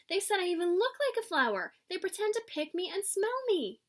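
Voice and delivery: put-on child telling parents about teasing, hurt; upset child. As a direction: complain to mom and dad, wounded.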